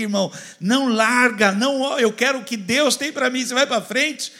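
loud, rising preacher's push; full-force pulpit preaching. Acted. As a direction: fire up the congregation.

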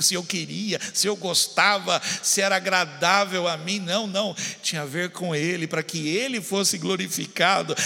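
normal talking voice

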